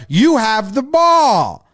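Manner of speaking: mild mock yell, slow and stretched; half-voiced yell at a teammate; imitated yelling. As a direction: lean on each word in exasperation. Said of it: "Hoffman is yelling at the pitcher".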